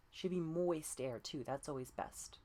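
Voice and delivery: ordinary talk, nothing marked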